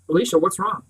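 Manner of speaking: urgent question; sharp, urgent. Acted. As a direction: snap awake and demand an answer. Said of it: "sharp, urgent".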